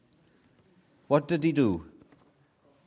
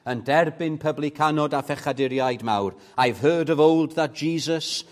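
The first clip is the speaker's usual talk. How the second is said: Welsh hymn recited; 5 dB louder than usual. Real, not acted. Preacher to his congregation, reciting the Welsh hymn fervently. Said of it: "let me say it in Welsh".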